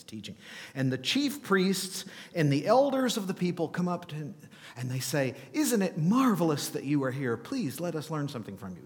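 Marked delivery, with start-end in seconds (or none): 5.5-8.8 mock flattery. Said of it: "Is that what they say?".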